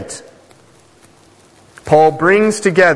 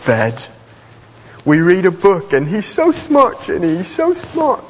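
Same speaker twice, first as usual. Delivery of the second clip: Forrest Gump impression. Preacher imitating Forrest Gump at Jenny's grave, a light impression. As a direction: gently imitate Forrest at the grave, mostly near his own voice. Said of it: "I can't even do the impression".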